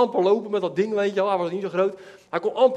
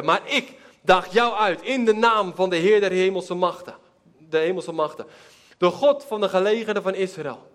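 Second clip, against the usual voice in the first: David's defiant answer. Acted. David's Bible speech.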